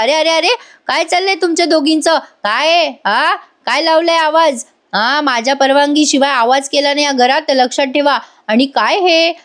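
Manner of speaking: lightly voiced stern elder telling the women off; scolding mother-in-law. Bossy elder scolds both women.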